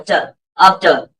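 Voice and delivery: ट as an open "tuh", then आफ्टर without R; silent R. Shown as a demonstration. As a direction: end आफ्टर on a vowel, "aaf-tuh". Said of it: "ट के बाद आ बोल".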